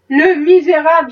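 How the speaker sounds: a touch of vehement scorn; wife mildly vehement about the slave trader. Acted. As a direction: spit out the insult with force. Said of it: "avec véhémence".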